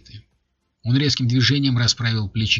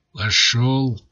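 fierce hiss; 3 dB louder, much slower than usual. Acted. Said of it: "свирепо прошипел он".

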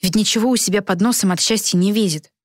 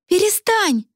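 much higher sharp stop it; frowning snap; 12 semitones higher, slower than usual. A narrator's reading. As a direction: cut her off, frowning. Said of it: "нахмурилась Каролина".

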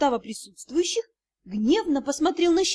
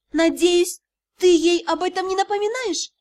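higher, louder pointed question; 6 semitones higher, 4 dB louder than usual. A narrator's reading. Heroine questions the magistr about a beautiful girl, pointed. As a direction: ask it pointedly, lifting the pitch.

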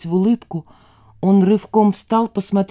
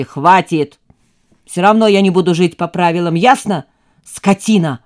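louder angry shouting; furious son; 5 dB louder than usual. Acted. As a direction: shout her down in rage. Son shouts back in fury. (зло, громко)

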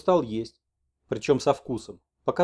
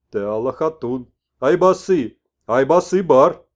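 louder, slow insistent chant; shaman messenger; 9 dB louder, slower than usual. Acted. Messenger insists to the old man, loud, slow.

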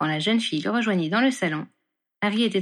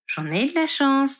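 pleased with himself; 6 semitones higher, slower than usual. A narrator's reading. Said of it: "se félicita Harry".

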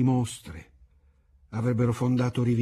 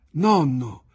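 calling out Nonno, higher and louder; shout; 4 semitones higher, 6 dB louder than usual. A narrator's reading. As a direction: call him out from behind the counter.

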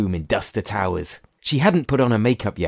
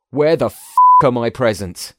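gently squeaked; 3 semitones higher, 8 dB louder than usual. A narrator's reading. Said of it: "gently squeaked Joel".

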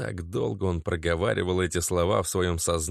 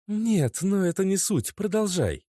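put-on high young woman's voice, impatient; girlfriend voice; 12 semitones higher than usual. A narrator's reading. Narrator voices Natasha, higher and impatient. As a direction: lift into the girlfriend, curt.

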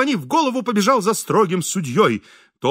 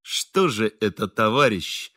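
harsh; 7 semitones lower, slower than usual. A narrator's reading. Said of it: "жёстко сказал Бендер".

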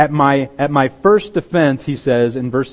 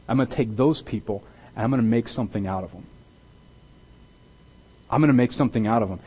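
softer, gentle promise of God taking the broken; tender God voice; 4 dB quieter than usual. Pretend. Preacher voicing God to the failed disciples, soft and tender.

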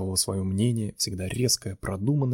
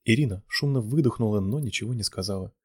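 plain reading voice

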